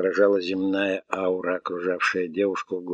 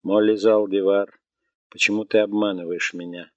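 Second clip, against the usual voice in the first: robot voice; 5 dB louder than usual. Acted. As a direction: speak as a gentle singing robot. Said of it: "Высокий мелодичный голос робота".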